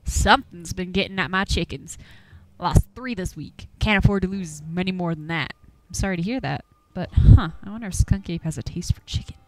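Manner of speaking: lightly voiced old country hunter, grumbling; a hint of a gruff Appalachian old-timer warning folks off. Game master voicing Duke, shooing the players from his woods, gruffly.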